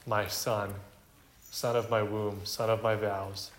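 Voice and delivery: motherly. Retold or imitated. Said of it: "wrapped in motherly terms".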